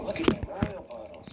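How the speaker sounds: high cartoon truck, delighted; Mater. Truck spots a tar pit, high character voice. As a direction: pitch up, marveling. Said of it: "He's all".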